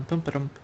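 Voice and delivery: little rhythmic boom ba-dum; absent-minded thinking noises; vocalized boom ba-dum. Real, not acted. Vocalizing while working out moves.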